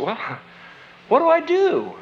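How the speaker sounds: high, laughing helpless question; high laughing helpless ask; laughing plea. Retold or imitated. Pleading with the girl, laughing.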